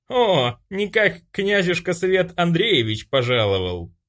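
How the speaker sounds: bully mocks the arriving prince, drawling; mocking drawl. A narrator's reading. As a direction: stretch it out, clowning. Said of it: "кривляясь, протянул он".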